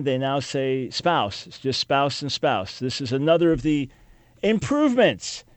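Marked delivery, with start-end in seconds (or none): 2.8-5.4 sarcastic. Real, not acted. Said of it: "sarcasm there".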